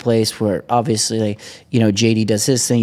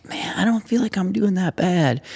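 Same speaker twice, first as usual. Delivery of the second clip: much higher, comic naive voice; mock self-assured; 10 semitones higher than usual. Slow rider fooling himself.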